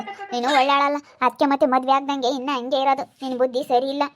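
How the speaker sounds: put-on mother-in-law loudly berating the girl; angry berating. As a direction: tear into her.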